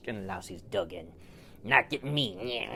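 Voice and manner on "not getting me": defiant louse. Acted. Louse defiant inside dog fur.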